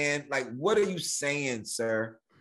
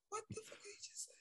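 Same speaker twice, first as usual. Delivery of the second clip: high, fast baffled aside; baffled viewer; 23 dB quieter, much faster than usual. Retold or imitated. Moviegoer straining to hear Thor, high and baffled. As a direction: lean in, lost, and blurt it.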